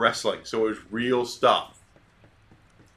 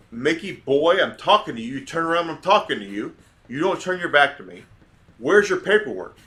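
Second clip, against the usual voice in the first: louder and higher, a stern dad demanding an answer; stern fatherly scolding; 4 semitones higher, 4 dB louder than usual. Retold or imitated. Dad confronts the catcher over paperwork, stern and loud. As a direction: lay down the law like a stern father. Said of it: "so confident and so stern".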